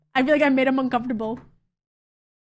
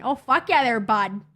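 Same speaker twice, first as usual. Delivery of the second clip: Canadian accent; 2 semitones lower than usual. Shown as a demonstration. Streamer answering a remark on the accent, in playful Canadian. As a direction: give it a Canadian lilt. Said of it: "Spexy's accent's insane".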